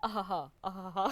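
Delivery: Singer impression/public. Pretend. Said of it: "with a bit of a singer thrown in".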